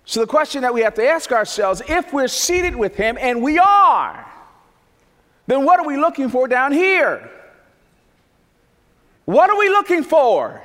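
high, loud, rising preacher's cry; impassioned pulpit delivery; full-force preaching. Acted. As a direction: preach it out, voice climbing. Preacher building to climax.

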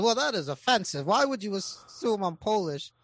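mildly offended joke customer; indignant. Acted. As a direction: push back as if mildly insulted.

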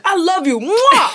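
high, gushing dad with a big kiss; affectionate dad. Retold or imitated. Dad smothering his grown child with love, hammed-up affection. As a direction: imitate an over-loving parent. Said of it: "My dad's the only one".

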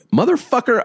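high-pitched outraged mock yell; retold yelling. Driver running over to confront husband, retold yelling. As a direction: burst out in a high retold shout. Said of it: "I start yelling".

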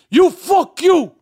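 slow mock shout of a heckling fan; mock fan heckle. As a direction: bark it out like a rude podcast fan. Mimicking fans yelling at him.

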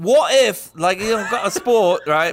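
put-on light Spanish accent. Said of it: "why did I do that in a Spanish accent".

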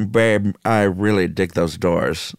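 a light, slowed crooner impression, cool and easy; lightly voiced cool showbiz crooner; a well-known singer. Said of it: "our old friend", referring to the singer.

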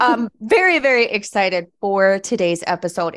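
high, loud excited voice; falsetto on stressed words. Real, not acted. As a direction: lift the pitch on very. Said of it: "My voice goes high when I get excited".

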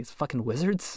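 put-on a light, laughing Scottish accent; puzzled Sean Connery in a Scottish accent. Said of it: "in, like, a Scottish accent being like".

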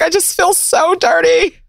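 dramatic ew, I feel dirty; grossed out. Retold or imitated. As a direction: act disgusted by the room. Mock disgust in studio.

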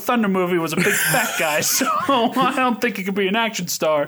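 half-laughing indignant rant; playfully heated, sarcastic protest; worked-up mock anger. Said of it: "Are you recording this angry?".

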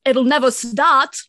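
hammed-up eccentric grandpa pronouncement; insane grandpa voice. Cohost quoting grandpa about the car, insane grandpa voice. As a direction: put on the batty film grandpa. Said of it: "who speaks like that".

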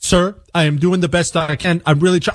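lightly voiced phone agent. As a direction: mimic the confused support rep. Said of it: "this is how it went".

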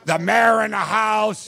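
drawn-out hype announcement; hype shout-out. Real, not acted. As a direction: call it out slowly like a hype man. Calling out a hyped shout-out.

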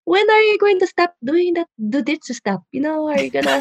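lightly mocked motherly pestering; nagging mom. Mom pesters her daughter to quit jujitsu, nagging.

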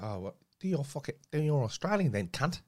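rough attempt at an accent, landing on Cockney; mock Cockney-sounding accent. Retelling a challenge to do Australian, Cockney-ish accent. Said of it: "Sound like something off, like, Lock, Stock".

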